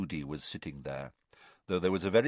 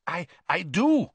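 higher, louder and gasping; panicking prisoner, breathless and stammering; 10 semitones higher, 5 dB louder than usual. A narrator's reading. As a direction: blurt it out short of breath. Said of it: "said Karkaroff breathlessly".

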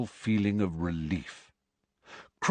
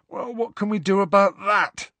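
yawning; 12 semitones higher, 5 dB louder than usual. Acted. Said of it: "said Ron, yawning".

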